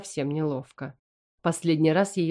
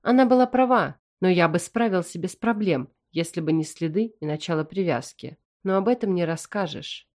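plain reading voice

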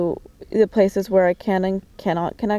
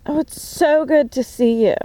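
higher, syrupy fake delight; mock gushing; 5 semitones higher than usual. Parodying the girl's fake-friendly hello, syrupy.

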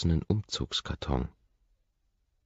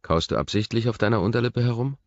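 stern; 8 semitones higher, 5 dB louder, faster than usual. A narrator's reading. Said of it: "dass meine Stimme streng klingt".

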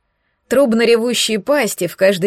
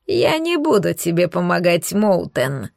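ниже, с мелким смешком внутри; рокочи, посмеиваясь, как древний трон; рокочущий трон; 3 semitones lower than usual. Acted. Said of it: "пророкотал, трясясь от мелкого смеха, трон". (ниже и с дрожащим смешком, голос трона)

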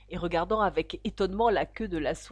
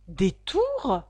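sharp, louder one-word retort; curt; 6 dB louder than usual. A narrator's reading. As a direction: throw the word back curtly. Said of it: "d'un ton sec". (réplique d'un ton sec)

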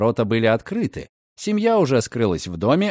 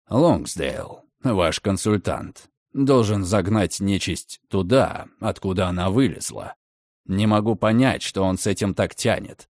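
irritated; 4 semitones lower than usual. Acted. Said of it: "раздражённо добавил Редферн".

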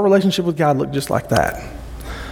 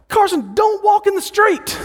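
much higher, slowed alarmed shout; parent shouting. Retold or imitated. Dad shouting at toddler Carson near the street, alarmed. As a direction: yell to stop a toddler heading into the road. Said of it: "And I'm like".

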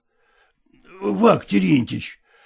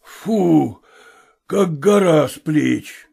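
relieved sigh; much slower than usual. Acted. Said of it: "вздохнул Емельян Иванович".

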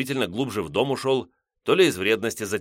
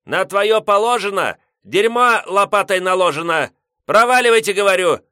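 put-on grumpy old man; 11 semitones higher, 8 dB louder than usual. Headman yelling back.

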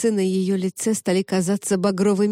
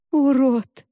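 high, loud scream; scream of self-hatred; 6 semitones higher, 5 dB louder than usual. Acted. Zoya screams at her reflection in self-hatred. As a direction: fling the word at your own face.

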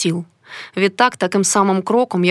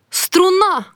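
very high alarmed cry; a sudden high yelp of alarm; sharp cry; 11 semitones higher than usual. Acted. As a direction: shout one word in shock. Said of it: "крикнула я".

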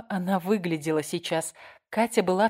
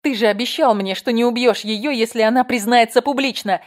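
loud, higher desperate shout; 5 semitones higher, 7 dB louder than usual. A narrator's reading. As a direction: cry out at the betrayal. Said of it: "крикнула Марина Тумак". (Марина кричит Мартову: отчаянный крик)

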